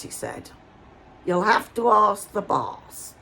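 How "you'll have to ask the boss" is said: put-on Hampshire accent. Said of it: "I'm doing his accent as well as I can".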